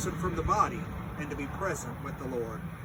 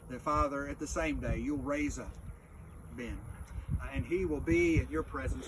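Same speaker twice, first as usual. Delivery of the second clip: hushed graveside prayer; 2 semitones lower than usual. Acted.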